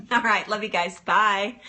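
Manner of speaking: ordinary talk, nothing marked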